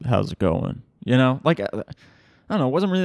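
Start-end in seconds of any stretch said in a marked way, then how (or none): 0.1-0.8 lightly lowered, mock deep trailer voice; a hint of the deep movie trailer announcer; mock deep voice greeting, lightly done. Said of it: "a movie trailer deep voice".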